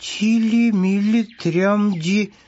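high, word-by-word reading; sounding out syllables. A narrator's reading. Hare reads the rag out, high and word by word. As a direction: read haltingly like a beginner. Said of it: "стал читать по складам тряпочку".

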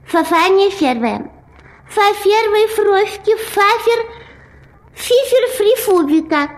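mushy lisp, every s a f; swollen tongue. Acted. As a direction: talk around a fat tongue. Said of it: "грешневая каша во рту".

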